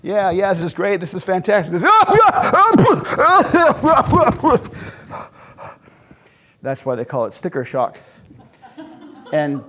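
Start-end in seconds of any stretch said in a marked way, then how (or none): 0.0-1.8 higher, bright mock enthusiasm; fake-enthused customer. Customer praising the car before the sticker, mock cheer. 1.9-5.3 a sudden very high, loud squeal of a laugh; shocked yelp-laugh. Retold or imitated. Customer seeing the sticker price, shrieking laugh.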